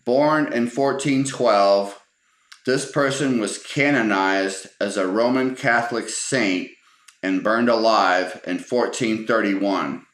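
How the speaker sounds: drawn-out, mildly sarcastic recital; kinda sarcastic. Retold or imitated. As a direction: read the trivia card with measured sarcasm. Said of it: "kinda sarcastically, he goes".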